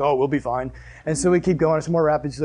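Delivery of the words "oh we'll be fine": low, soft dad reassurance; lightly voiced dad, casually brushing off worry; unconcerned dad. Dad reassuring kids after rapids, unconcerned.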